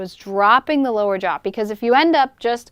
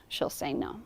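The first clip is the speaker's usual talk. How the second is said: whispered no; 8 semitones lower, 13 dB quieter than usual. Shown as a demonstration. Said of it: "if she disagrees".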